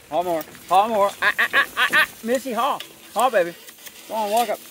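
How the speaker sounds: loud, high driving calls to the team; calling commands. Real, not acted. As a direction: drive the horses on.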